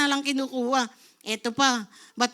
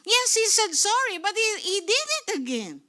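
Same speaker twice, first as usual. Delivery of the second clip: raised-pitch, hammed-up protest; mock aggrieved complaint; 5 semitones higher than usual. Preacher playing the wronged person refusing an apology, mock aggrieved. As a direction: protest as if at the end of patience.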